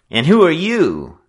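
loud, high, hostile challenge; furious at being interrupted; angry snarl. A narrator's reading. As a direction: snarl at the intruder. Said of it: "Simpson snarled, angry at the interruption".

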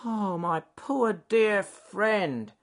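slow, high, loud pitying beaver voice; gentle. A narrator's reading. Beaver comforting his hurt friend, slow and gentle. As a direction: draw out each word in sympathy. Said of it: "said Ben the bad-tempered beaver gently".

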